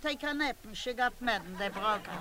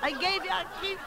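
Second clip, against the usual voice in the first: tender mother; 5 semitones higher, faster than usual. Retold or imitated. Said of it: "She said".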